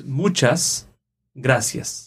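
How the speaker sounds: "muchas" stressed on MU and "gracias" on GRA, second-last syllables; stress demo. Shown as a demonstration. Teacher showing where the stress falls, clear demo. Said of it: "the stress is in the second last".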